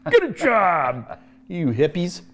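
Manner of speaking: long drawn-out jeering call; mock heckle. Teasing the student who passed, mock heckle. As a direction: stretch it out in a joking heckle.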